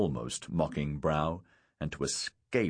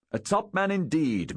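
grinning; 10 semitones higher than usual. A narrator's reading. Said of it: "Lurie grinned".

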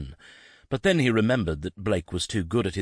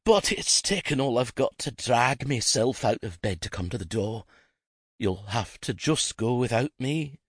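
frail wheezing; 6 semitones higher than usual. Acted. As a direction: drag each word out like you can barely stand. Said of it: "Jacqueline wheezed back".

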